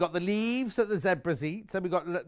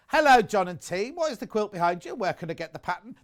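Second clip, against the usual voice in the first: put-on London accent; 2 semitones higher, 5 dB louder than usual. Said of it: "That's my London accent".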